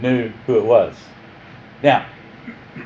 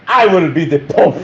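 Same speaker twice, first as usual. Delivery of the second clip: a hint of a Mexican bandit movie accent; mock bandit, mostly own voice, rising on I; 3 semitones higher, 4 dB louder than usual. Teacher voices King Henry in a light mock Mexican bandit accent. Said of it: "he didn't say it with that accent".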